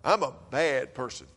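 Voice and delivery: a hint of pride in the voice; almost prideful. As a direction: say it like he's half proud of it. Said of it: "The first time he said it was almost prideful".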